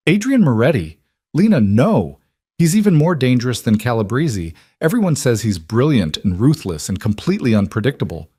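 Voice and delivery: high, alarmed protest; horrified. Acted. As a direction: plead with her in shock. Sister horrified by news.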